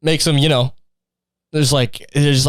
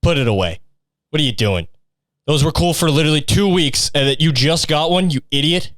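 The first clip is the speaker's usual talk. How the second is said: mocking peers; 2 semitones lower than usual. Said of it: "everyone was just like".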